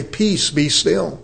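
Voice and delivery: calm command. Retold or imitated. Speaking peace to the storm.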